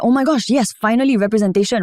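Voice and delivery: high, bright burst of joy; excited. Retold or imitated. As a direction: gush with excitement. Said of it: "I was so excited".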